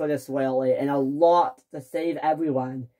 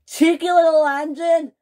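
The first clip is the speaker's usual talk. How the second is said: 1 indignant echo; 11 semitones higher, 5 dB louder than usual. Acted. James indignant at Topham Hatt.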